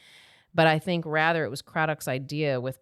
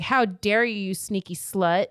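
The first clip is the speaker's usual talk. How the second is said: higher, indignant mock accusation; mock outrage; 4 semitones higher, 4 dB louder than usual. Witnesses accusing Rissa of sneaking around, mock outrage. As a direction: play the scandalised accuser, lightly hammed-up.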